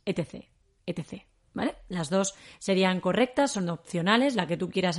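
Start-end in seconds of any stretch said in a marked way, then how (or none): 0.0-1.3 E T C spelled out letter by letter. Shown as a demonstration. Teacher showing the abbreviation read as letters. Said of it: "con las siglas".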